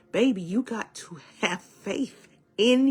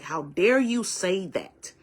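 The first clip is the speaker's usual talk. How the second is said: louder, offended outburst; mock indignant; 3 dB louder than usual. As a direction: act out someone mad and affronted. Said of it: "a lot of people get mad".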